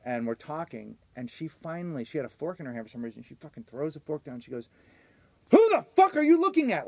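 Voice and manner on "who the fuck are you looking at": high, loud retold outburst at the date; loud angry quote. Retelling his date yelling across the room, loud and high. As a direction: bark it out like the furious date.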